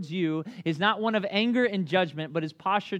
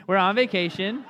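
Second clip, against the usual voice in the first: innocent dad; 2 semitones higher, 5 dB louder than usual. Retold or imitated. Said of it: "my dad just very innocently says".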